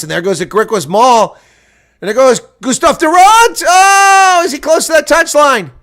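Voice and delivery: climbing commentator yell as the play breaks; excited commentary shout. Real, not acted. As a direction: roar the run down the touchline like a commentator. Live try-line play-by-play.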